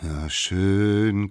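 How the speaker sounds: drawn-out, reluctant grumble; acted grumble of consent; grumbling. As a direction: give in grudgingly. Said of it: "grummelten die anderen".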